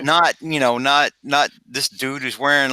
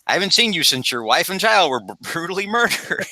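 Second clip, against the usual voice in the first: gruff newspaper editor; 5 semitones higher than usual. Acted. Editor greets returning hire.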